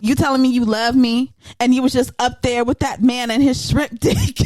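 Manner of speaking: mock angry rant. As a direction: rant like a betrayed lover. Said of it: "he was like".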